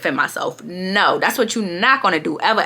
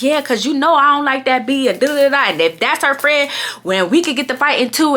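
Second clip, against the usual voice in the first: higher-pitched mimicking of a mouthy friend; mock her crazy talk, pitched up; 5 semitones higher than usual. Retelling the friend's yapping, mock crazy talk. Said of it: "now she's just talking crazy".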